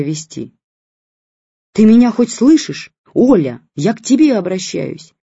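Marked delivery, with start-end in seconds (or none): 1.7-5.1 loud, high, fed-up yell; shouting. A narrator's reading. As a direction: shout for her attention. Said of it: "кричала тётка".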